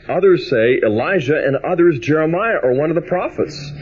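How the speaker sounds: measured, unhurried Gospel reading; scripture reading. Acted. Preacher reads the Gospel to the congregation, measured and reverent.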